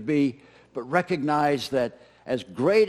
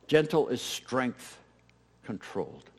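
low controlled emphasis; 5 semitones lower, 6 dB quieter, slower than usual. Real, not acted. Emphatic quiet conclusion.

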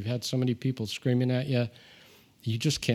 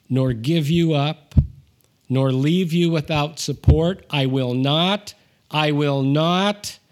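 loud, slow, hammering each NOT; emphatic promise; 5 dB louder than usual. Shown as a demonstration. Preacher reading God's promise to the congregation, loud and slow. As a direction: build the triple negative louder with every I will not. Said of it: "the verb tense is, um, emphatic".

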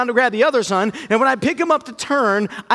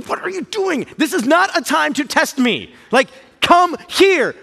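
exasperated thought; 5 semitones higher than usual. Retold or imitated. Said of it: "I'm thinking".

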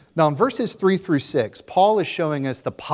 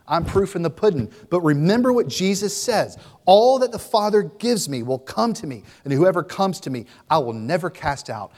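Peter exhorting the church; 4 semitones higher, 5 dB louder than usual. Acted. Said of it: "Peter would have said".

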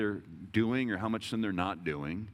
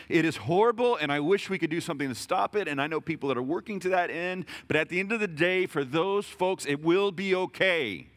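raised, higher and louder, slowing on the last words; passionate preaching; 8 semitones higher, 4 dB louder than usual. Acted. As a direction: proclaim it with full conviction, slowing to the end. Preaching climax, passionate reply.

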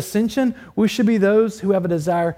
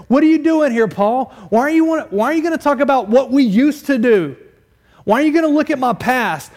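higher, louder challenging questions; objecting listener; 6 semitones higher, 5 dB louder than usual. Acted. Imagined churchgoer challenges Paul about raking up the past, objecting. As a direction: push back at Paul in raised, incredulous questions. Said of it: "You're probably saying".

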